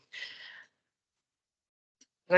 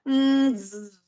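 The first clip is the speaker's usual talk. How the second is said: lightly buzzing fly voices, a bit higher; buzzing flies; 6 semitones higher, slower than usual. Acted. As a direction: hum and buzz it like two fat flies. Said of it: "zubiram as moscas". (moscas zumbindo, voz levemente mais aguda)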